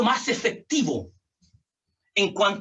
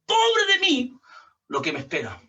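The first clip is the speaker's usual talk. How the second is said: lamento de Pablo; 2 semitones higher than usual. Retold or imitated. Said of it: "él está diciendo".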